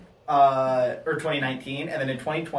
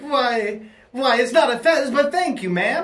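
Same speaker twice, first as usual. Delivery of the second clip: put-on high, polite kid voice; little bellhop boy; 8 semitones higher, 4 dB louder than usual. Bellhop politely correcting an old lady, high boy voice. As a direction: raise it into a courteous small boy. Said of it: "we see a little boy".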